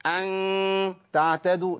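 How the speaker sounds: أن تعتدوا with a harsh, overdone nasal ghunna; ugly overdone ghunna. Shown as a demonstration. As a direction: imitate the wrong, forced ghunna on أن. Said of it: "ده خطأ، صح؟".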